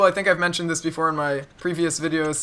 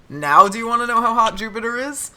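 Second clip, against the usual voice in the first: higher, rising eager question; eager child's question; 6 semitones higher, 4 dB louder than usual. Retold or imitated. Child pestering the teacher about Jupiter again, eager rising question. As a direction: ask brightly, pitch climbing to the end.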